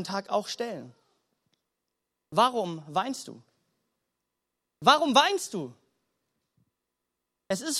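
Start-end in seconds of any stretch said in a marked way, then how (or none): 2.3-3.4 slow and lower, weighing each word; slow, pondering question. Shown as a demonstration. Preacher puts the question to every listener, slow and pondering. Question put to congregation slowly. 4.8-5.7 quicker, lifted repeat of the question; livelier repeat of question. Shown as a demonstration. Preacher presses the question on the congregation, livelier and lifted.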